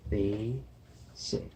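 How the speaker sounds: "basic" split as BAY, then sick; long A in basic. Shown as a demonstration. Teacher sounding out an example, long A in "basic". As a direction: sound out "basic" in two parts, long A first. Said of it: "We hear the A sound".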